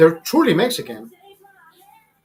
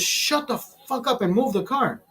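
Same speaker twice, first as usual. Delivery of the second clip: high, slow imitation of yelling; retold yell; 6 semitones higher, slower than usual. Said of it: "that motherfucker comes yelling".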